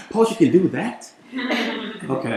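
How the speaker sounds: high, loud laughing disbelief. Real, not acted. Poet laughing along with a student about her class, loud and high. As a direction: laugh the words out, amazed.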